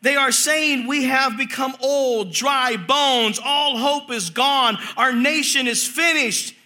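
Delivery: measured, projected preacher's reading; Scripture reading. Acted. Preacher reads Ezekiel's vision to the congregation, Scripture reading. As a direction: read the prophecy out deliberately.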